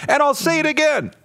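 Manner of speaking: high-pitched, struggling to talk through real laughter; laughing to tears. Real, not acted. Host helpless at the irony of Tiger King, laughing to tears. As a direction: pitch climbs as the laughter takes over. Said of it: "I'm laughing so hard I'm crying".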